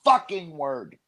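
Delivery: slow, high exasperated outburst. Retold or imitated. Begging a girl to stop saying a word, exasperated. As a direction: draw out each word in fed-up protest.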